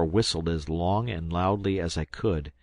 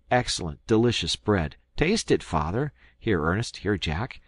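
excited. Acted. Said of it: "crying out".

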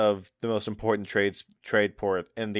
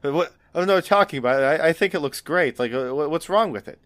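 put-on higher-pitched, defensive teen; indignant teenage pushback in a raised voice; upstart teenager; 6 semitones higher, 4 dB louder, faster than usual. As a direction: protest like a cocky young deckhand. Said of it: "because he's an upstart teenager".

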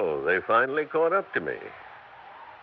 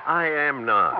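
indignant denial; 8 semitones higher, 7 dB louder, slower than usual. Acted. Couple arguing in the dark.

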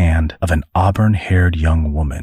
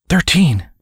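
put-on teen girl voice; 11 semitones higher than usual. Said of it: "she said".

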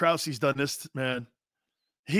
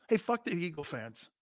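mock Baker in Philly; 3 semitones lower, 3 dB louder than usual. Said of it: "Watch this".

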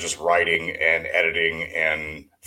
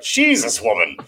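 surprised; 3 semitones higher than usual. Retold or imitated. Reacting to a long email.

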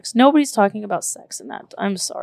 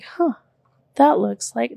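surprised huh; 4 semitones higher, slower than usual. Retold or imitated. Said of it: "And I was like".

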